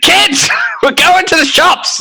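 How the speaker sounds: very high, bossy mum voice, called out. Joking about parents announcing plans to kids, the speaker does a mum voice. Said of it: "in your best mum voice".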